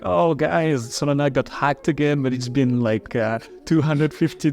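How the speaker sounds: mock troll post. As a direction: read it like a gleeful troll jeering at Solana. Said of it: "online trolling that I found very funny".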